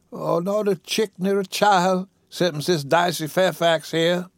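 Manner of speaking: lightly voiced feeble old woman; weak invalid. Sick woman naming her only heir, weakly.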